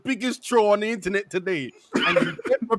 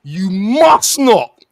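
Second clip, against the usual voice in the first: slow pleading warning; 7 dB louder, slower than usual. Retold or imitated. Pleading with team not to collapse.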